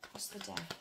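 quiet murmured ask. Real, not acted.

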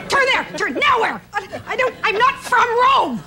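high, laughing mock panic; flustered and laughing at herself. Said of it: "It's like".

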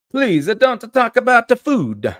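very high, loud cartoon Italian complaint; Guido, stereotyped Italian accent. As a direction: wail in a hammed-up Italian accent. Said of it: "I'm just gonna do stereotypes".

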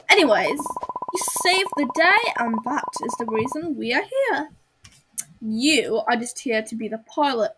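amateur put-on Australian accent. Official tells pilot Kaylee off for chatting, Australian accent. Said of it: "just gonna give her an Australia as-, accent".

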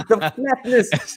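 slow, laughing, flat Cape Town vowel on flatness; flat accent demo. Shown as a demonstration. Showing the host how flat his accent is, slow laughing flat accent. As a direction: drag out flatness flat and level, half laughing. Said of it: "based on the flatness of the accent".

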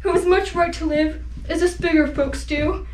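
a loud pleading cry on please; begging plea. Acted. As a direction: beg him desperately as you chase. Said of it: "Horton chased after and begged".

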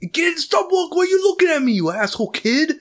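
put-on high, loud, fast yelling at a kid; angry neighbour yelling. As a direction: shriek it out like a furious neighbour chasing a kid off. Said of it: "it's just like".

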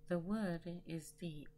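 measured poem reading with deliberate pauses; poetry recital. Acted. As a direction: recite it line by line, letting each phrase rest. Recites second companion poem.

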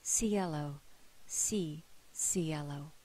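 lightly voiced blessing, gently falling; a hint of a priest's benediction. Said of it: "as if it were a benediction".

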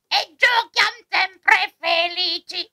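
croaky cartoon bird voice; sing-song croaking forest creature; squeaky shrill puppet voice. Croaking crow character sings rhyme.

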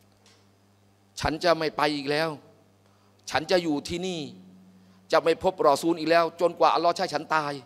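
low, soft, very slow grief; sad despairing vow. Retold or imitated. Preacher voicing grieving Thabit locked at home, soft and despairing. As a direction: say it like a man crushed with shame.

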